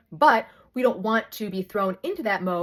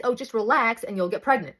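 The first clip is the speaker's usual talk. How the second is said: mocking advice. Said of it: "the most annoying advice that you ever get is".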